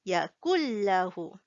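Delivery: Yakullahu with the l held double; model yakullahu. Shown as a demonstration. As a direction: say Yakullahu, no n sound. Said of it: "it is read like this".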